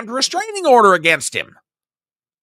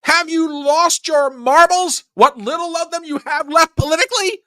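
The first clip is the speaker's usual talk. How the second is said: scornful question; 9 semitones higher than usual. Real, not acted. Mocking rhetorical question.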